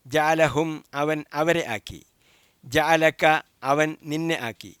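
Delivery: slow measured chant to be repeated; recitation drill. Shown as a demonstration. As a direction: spell out each form slowly for the class to repeat. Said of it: "നിങ്ങളത് ആവർത്തിച്ച് പറയുക". (പതുക്കെ ആവർത്തിക്കാനുള്ള പാരായണം)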